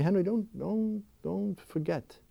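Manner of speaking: soft, halting, tender appeal; tender divine reassurance. Acted. God reminding him of love amid inner chaos, tender. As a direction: speak softly, as God consoling a loved one. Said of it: "God is saying to me".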